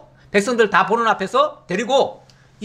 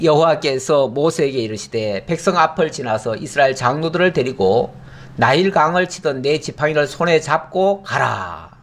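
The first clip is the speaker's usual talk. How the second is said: solemn scripture reading; 6 semitones lower than usual. Acted. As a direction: read it like holy writ, unhurried. Pastor reads God's command aloud.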